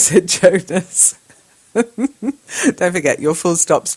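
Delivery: slow, chuckling through the words; laughing gently at the student's missing full stops. Real, not acted. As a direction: tease the student while laughing. Teacher chuckles at student's chat.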